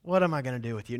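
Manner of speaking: lightly voiced tired father; weary father. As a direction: say it like a tired dad to his kids. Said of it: "a father talking to wayward children".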